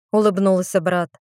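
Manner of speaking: usual speaking voice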